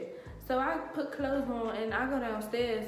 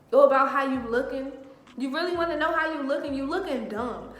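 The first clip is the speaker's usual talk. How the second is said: indignant retold put-down; retold blow-up; 3 semitones higher, 6 dB louder than usual. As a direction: act out throwing it back at him. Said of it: "So I automatically kirk".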